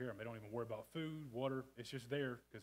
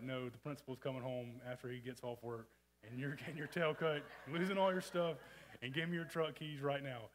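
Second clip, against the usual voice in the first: stern parent scolding; 2 semitones higher, 5 dB louder than usual. Retold or imitated. Parents scolding, voiced in story.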